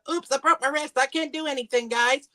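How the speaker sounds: high mock whine of an excuse; mocking whiny Brady. Ranting about Brady, mimics his excuse in a high whine. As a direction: pitch it way up like a crybaby.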